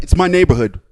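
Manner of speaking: retold territorial retort, punched out; defiant. Driver brushes off the complaint, defiant.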